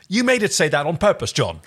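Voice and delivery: high-pitched, accusing exasperation; exasperated. A narrator's reading. Erin turns on John over the toy's message, exasperated. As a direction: accuse him, thoroughly fed up. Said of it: "Turning to John in exasperation".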